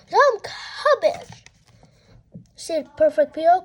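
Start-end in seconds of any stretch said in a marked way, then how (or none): 0.1-1.4 goody-goody request. Acted. Peter asks sweetly.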